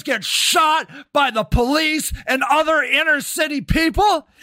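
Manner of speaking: shouting in real fury at a councilman; real angry rant. Real, not acted. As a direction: let it all out, furious and relentless. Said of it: "got that out of my system".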